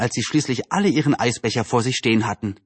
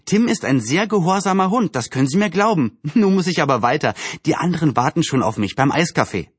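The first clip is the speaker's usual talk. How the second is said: put-on slightly lifted girl's voice, reassuring; lightly voiced friendly Anne, reassuring; 4 semitones higher than usual. Anne assures the neighbour about her dog, lightly reassuring. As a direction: lightly play a cheerful girl in a hurry.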